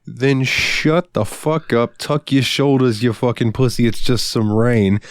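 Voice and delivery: slow, emphatic mock telling-off; hammed-up order to toughen up; mock tough scolding. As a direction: lean on each word, bossing a friend around. Mock drill-sergeant scolding of co-host.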